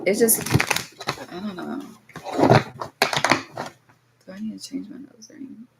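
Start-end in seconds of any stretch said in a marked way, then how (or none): 1.3-5.7 much softer, to herself; a low private mutter about her nose ring; muttered aside. Real, not acted. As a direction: drop out of the reading and mumble to yourself.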